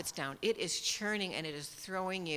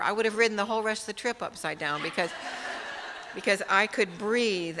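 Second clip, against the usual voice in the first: laughing; 2 semitones higher, 6 dB louder than usual. Real, not acted. Laughs recalling being upside down.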